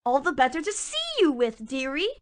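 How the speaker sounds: wolf's put-on grandma voice; sly wolf playing granny; wolf hiding behind a granny voice.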